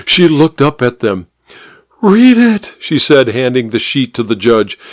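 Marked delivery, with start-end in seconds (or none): 2.0-2.7 high, loud urgent push; urgent command. A narrator's reading. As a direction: thrust it at him. Housemaid urging the judge.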